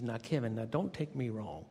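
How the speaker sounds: put-on light Southern accent, measured and frank; a hint of Southern accent. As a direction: imitate an older Southern supervisor, lightly. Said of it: "she had this wonderful Southern accent".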